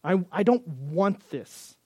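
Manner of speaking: slow, disdainful rejection; slow scornful refusal. Retold or imitated. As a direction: spit it out slowly in contempt. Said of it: "with that same attitude to say".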